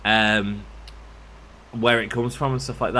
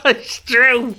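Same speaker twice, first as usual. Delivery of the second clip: high giggle then louder, higher admission; giggling; 14 semitones higher, 7 dB louder than usual. Real, not acted. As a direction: laugh it off, pitched up. Laughing at own overshare.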